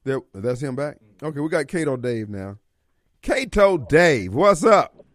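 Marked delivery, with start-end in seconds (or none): 3.2-5.1 drawn-out greeting. Real, not acted. Greeting caller again.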